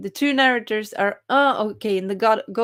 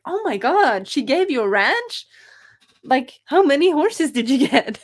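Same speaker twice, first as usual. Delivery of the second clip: imitating her own excited, raised-voice gasp; excited reaction; 6 semitones higher, 5 dB louder than usual. Streamer replaying her excitement at a viewer's ranch, raised and thrilled. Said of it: "I was like".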